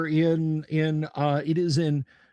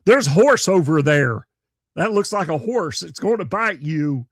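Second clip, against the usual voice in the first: mock warning; 6 dB louder than usual. Voicing viewer's joke comment.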